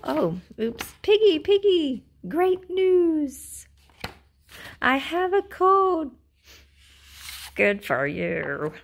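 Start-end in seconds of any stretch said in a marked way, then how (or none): 1.0-6.1 high joyful news; excited. Acted. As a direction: announce it happily. Gerald tells Piggy news.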